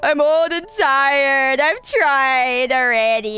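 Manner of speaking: slow, drawn-out, mock-exhausted; weary grown-up self. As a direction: play it old and tired, dragging each word. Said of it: "And now I'm just kinda like".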